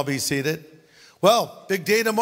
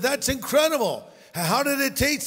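higher, amazed punchline setup; amazed listener; 7 semitones higher than usual. Retold or imitated. Someone in the pastor's joke asking the farmer, lightly voiced amazement. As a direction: play the wide-eyed questioner in the joke. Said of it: "Someone said".

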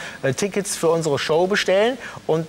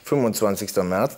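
lowered fake voice; disguised deep voice; 9 semitones lower than usual. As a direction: drop the voice low to disguise it. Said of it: "meine Stimme verstellt".

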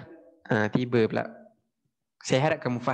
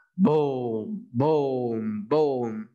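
booms stretched out and falling away; drawn-out cartoon "bom"; imitated bomb blasts; 3 semitones lower, much slower than usual. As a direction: play the explosions with your mouth. Imitates British bombs on board.

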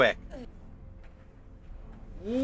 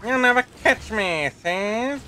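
put-on old-timey mobster voice; 4 semitones higher, 4 dB louder than usual. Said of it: "that old-timey mob voice thing".

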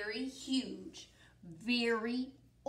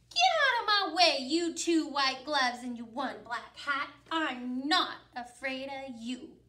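bold loud; 4 dB louder than usual. Acted. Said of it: "she said".

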